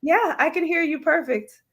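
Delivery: choppy robotic sound over the stream; garbled, robotic phone-line voice; robotic audio glitch. Real, not acted. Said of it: "it's really robotic".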